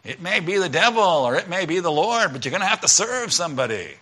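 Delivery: a mild folk-singer-style sung lilt on the lyric; preacher lightly imitating a famous singer for the congregation. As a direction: croon the line like a folk singer, half-joking. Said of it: "That's how he sounds".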